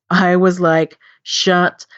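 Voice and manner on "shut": shocked disbelief. Retold or imitated. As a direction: retell the moment the blog floored you. Retells shock at discovering blog.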